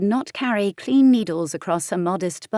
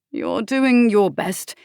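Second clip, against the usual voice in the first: underlying anger; 3 semitones higher, 5 dB louder, slower than usual. A narrator's reading. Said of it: "his voice rang with an underlying anger".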